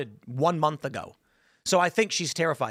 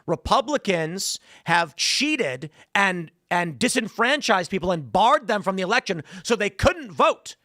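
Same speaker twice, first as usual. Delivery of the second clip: lightly acted proclamation, pitch climbing to a louder last word; mock political accusation; 3 semitones higher, 3 dB louder than usual. Governor's side accusing Republicans before the public, mock indignant proclamation. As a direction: imitate a politician's emphatic accusation, building higher. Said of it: "They'll come out and say".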